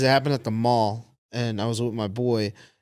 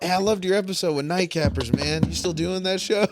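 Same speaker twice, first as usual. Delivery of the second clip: mock fan; 5 semitones higher than usual. Fan voiced, pitched up.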